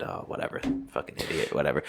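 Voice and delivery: unvoiced shrug of a mutter; calm muttered dismissal. Shown as a demonstration. Showing how to let a bad driver go, whispered. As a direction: toss it off in a whisper. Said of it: "I can still point it out and not be mad".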